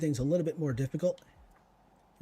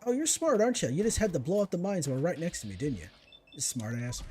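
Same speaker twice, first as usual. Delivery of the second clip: sarcastic taunt; 3 semitones higher than usual. Real, not acted. Enemy blew up mines.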